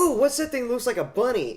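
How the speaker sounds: very high, delighted character voice; Donut. Retold or imitated. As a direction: coo with high-pitched, innocent curiosity. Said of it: "and Donut's just like".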